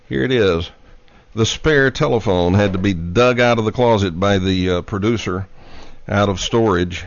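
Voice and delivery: slightly winded after running; out of breath. Real, not acted. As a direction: speak a little out of breath. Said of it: "I am a little bit out of breath".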